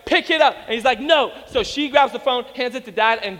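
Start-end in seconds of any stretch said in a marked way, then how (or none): 0.0-0.6 raised, higher-pitched parental order; stern mom's command. Retold or imitated. Mom grabbing her defiant son, stern imitated command. 1.0-1.3 higher, louder kid's protest, imitated; defiant child's refusal. Small boy grabbed by his mom, imitated defiance.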